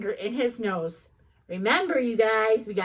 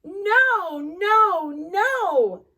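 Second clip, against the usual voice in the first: high, louder repeated scolding; alarmed mom; 6 semitones higher, 4 dB louder, much slower than usual. Acted. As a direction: stop him with each no.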